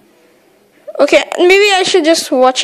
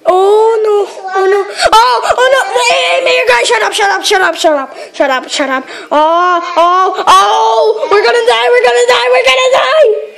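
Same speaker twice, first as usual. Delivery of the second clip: shaky stammering panic; 4 semitones higher than usual. Real, not acted. Power running out, panic.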